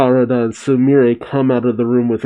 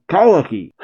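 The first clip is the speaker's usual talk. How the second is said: calling out; 6 semitones higher than usual. Acted. Boruto calls after Kawaki.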